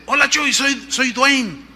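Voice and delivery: high-pitched, mock-ironic caller's hello; ironic phone greeting. Pastor phones Chuy after the offering, ironic. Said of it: "en tono irónico me dice".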